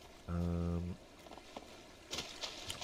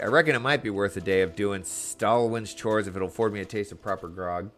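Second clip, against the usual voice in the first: put-on drunken pirate; 2 semitones higher, 5 dB louder than usual. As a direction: roar it like a tipsy buccaneer.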